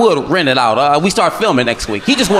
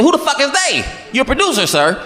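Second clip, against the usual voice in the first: outraged disbelief; 7 semitones higher than usual. Retold or imitated. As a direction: shout it in disbelief. Outraged reply in story.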